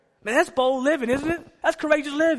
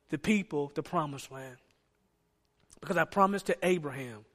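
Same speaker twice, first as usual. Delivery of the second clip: soft, low, intimate voice of God; gentle comfort; 4 semitones lower, 4 dB quieter than usual. Acted. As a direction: reassure the mourning Joshua quietly. God comforting grieving Joshua.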